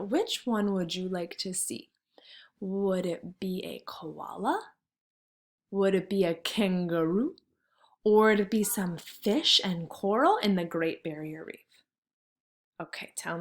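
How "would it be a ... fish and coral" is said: hushed, teasing whisper. Shown as a demonstration. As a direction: whisper each choice like a secret. Teacher whispers choices to children.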